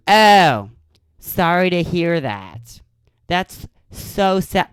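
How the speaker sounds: mock fake sympathy. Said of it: "You think they would give you the fucking time of day".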